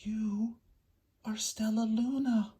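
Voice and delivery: tearful whisper. A narrator's reading. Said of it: "she whispered".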